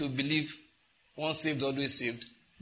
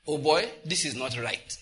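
sincere confession. Shown as a demonstration. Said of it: "Just say it like that".

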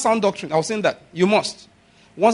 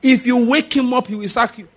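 wife's warning; 5 semitones higher than usual. Retold or imitated. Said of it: "eh, the wife said".

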